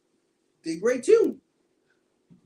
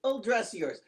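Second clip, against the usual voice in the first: mocking taunt; 8 semitones higher than usual. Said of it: "He's like".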